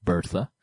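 Bertha said "BUR-tha"; English pronunciation. Shown as a demonstration. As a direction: Bertha with an "ur" vowel and th. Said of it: "in terms of pronunciation".

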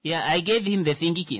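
Namibian English phrasing. Retold or imitated. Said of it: "Now that's Namibian English".

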